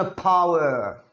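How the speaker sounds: "पावर" as a long, slow "phaawer"; aspirated P demo. Shown as a demonstration. Teacher echoing Shaktimaan, "पावर" drawn out with puffed p. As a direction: burst air on the p of "पावर" and stretch it. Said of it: "पी की sound आती है पावर की".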